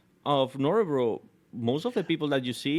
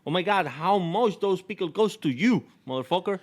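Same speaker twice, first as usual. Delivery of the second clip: higher-pitched mock irritation, fast at the end; imitating annoyed worker; 7 semitones higher, 4 dB louder than usual. Annoyed sandwich girl scolding over pickles, mock outrage. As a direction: act out a fed-up server telling someone off. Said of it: "she got really annoyed".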